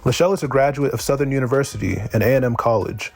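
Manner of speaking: even, measured introduction read from the page; formal bio reading. Acted. Host formally introducing a guest poet to listeners, bio read-out.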